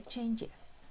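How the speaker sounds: "changes" lento, marcando la terminación "es"; pronunciación clara. Shown as a demonstration. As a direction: alargar "changes" para que se oiga la sílaba extra. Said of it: "en pronunciación es". ("changes" despacio, como modelo para la clase)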